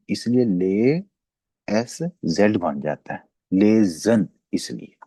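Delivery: ले and लेजन said slowly, drawn out; slow careful लेजन; pronunciation demo. Shown as a demonstration. Teacher to class, slow model word. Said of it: "ए की sound देता है ई".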